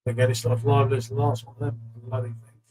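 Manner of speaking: talking with a mouthful of food; words around a bite of food; mouth full. Real, not acted. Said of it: "What are you eating".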